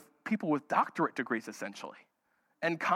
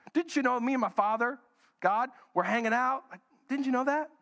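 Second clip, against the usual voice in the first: put-on sarcastic teen; 4 semitones higher than usual. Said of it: "a little sarcastically".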